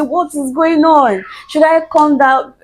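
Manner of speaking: retold worried outburst, pitched high; imitating upset brother. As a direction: act out an emotional brother panicking on the phone. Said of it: "very emotional, and he was already crying".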